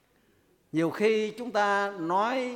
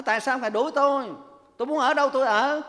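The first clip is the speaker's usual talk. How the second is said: defiant demon; 5 semitones higher, 3 dB louder, faster than usual. Retold or imitated.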